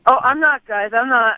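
pinched-nose voice; holding nose. Real, not acted. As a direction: talk with your nose held shut. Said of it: "holding your nose".

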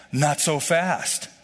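drawn-out slow phrase; slow and deliberate. Shown as a demonstration. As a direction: ease off, each word slow. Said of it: "slow down, pause".

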